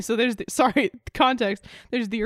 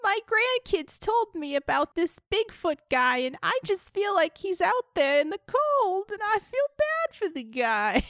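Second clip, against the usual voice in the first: a hint of a fretful old grandma, a bit higher; lightly voiced grandma; 6 semitones higher than usual. Grandma fretting over Bigfoot, lightly voiced. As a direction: mildly play the worried grandma.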